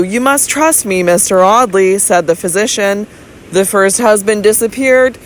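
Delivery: calm medical man reasoning it through; measured physician. Acted. Physician reasoning calmly with Robert, lightly voiced doctor.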